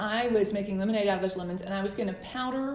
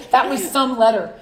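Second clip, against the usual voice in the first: real laughter; laughing; 3 semitones higher, 11 dB louder than usual. Real, not acted. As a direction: still laughing as you say it. Laughing at the memory.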